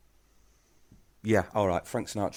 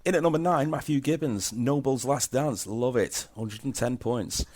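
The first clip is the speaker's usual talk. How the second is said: upbeat radio countdown announcer; chart show countdown. Pretend. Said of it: "do a top of the pop style".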